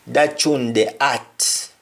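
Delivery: "tune" said choon, slowly; slow Patois. Shown as a demonstration. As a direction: draw out "That tune the art" in Patois. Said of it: "we sometimes call them tune".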